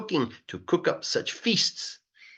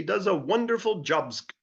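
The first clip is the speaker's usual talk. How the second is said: high, marvelling crowd voice; awed townsfolk; 7 semitones higher than usual. Acted. Townspeople gasping over the new zoo, marvelling. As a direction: exclaim his name in wonder.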